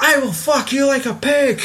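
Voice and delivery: high, strained imitation of a raging teacher; hammed-up high threat, close to laughing; mock furious threat. Retelling the teacher's threat to a friend, high mock rage.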